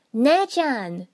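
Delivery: high, loud desperate cry; shout. A narrator's reading. Naruto crying out to Yukie being choked, high desperate shout. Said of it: "Naruto shouted".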